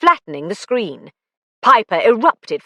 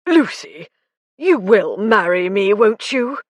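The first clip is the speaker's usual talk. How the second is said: pleading; 2 semitones higher than usual. A narrator's reading. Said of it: "Bingham pleaded".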